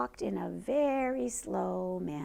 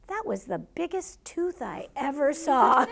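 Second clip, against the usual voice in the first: laughing through quote; 4 semitones higher than usual. Retold or imitated. Child's funny quote, laugh heard.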